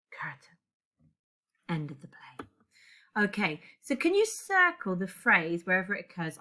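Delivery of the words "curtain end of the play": soft whisper to close the play; whispered ending. Acted. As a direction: hush the final words. Closing stage direction, hushed.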